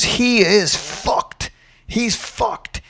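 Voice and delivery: high-pitched, emphatic imitation of a fired-up coach; mock-yell it without real volume; retold mock scream. Coach dad firing up a losing fighter, mock scream. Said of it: "he's just screaming at Rob".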